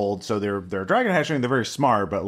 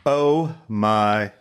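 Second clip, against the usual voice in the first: song intro voice; much slower than usual. Retold or imitated. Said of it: "I like big butts".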